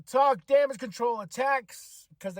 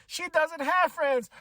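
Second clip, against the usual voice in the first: sassy taunt; 9 semitones higher, slower than usual. Retold or imitated. Acting out a backstage insult.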